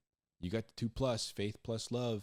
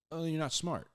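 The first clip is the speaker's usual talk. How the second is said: mock verdict; 9 semitones higher than usual. Questioner verdict.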